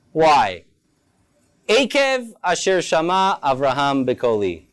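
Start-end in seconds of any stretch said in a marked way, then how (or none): 1.7-4.7 slow, careful recitation of the Hebrew verse; read slowly. Shown as a demonstration. Teacher recites the Hebrew verse to students, slowly. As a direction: savour each word of the verse. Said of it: "I'm gonna say it Slowly".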